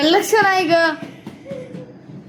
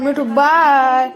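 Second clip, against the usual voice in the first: loud sing-out farewell with a long drawn bye; calling goodbye; 7 dB louder, much slower than usual. Real, not acted. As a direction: call out to the pet, stretching the last word. Calls goodbye to Mithu. (लांबवून मोठ्याने निरोप देत)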